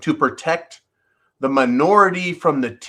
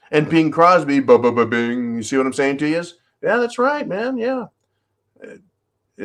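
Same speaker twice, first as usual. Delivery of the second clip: silly phone caller bit. Acted. Host phoning San Francisco as a mock caller, hammed up. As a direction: play a ranting prank caller demanding money. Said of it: "when I do the phone thing".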